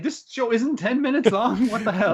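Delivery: exaggerated what-the-hell; mock disbelief. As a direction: play up the shock at the short episode. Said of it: "I was like".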